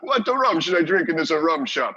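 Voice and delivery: high, loud imitation Jamaican accent; ersatz Jamaican accent. Customer orders rum at tiki bar, mock Jamaican accent. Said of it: "putting on your ersatz Jamaican accent".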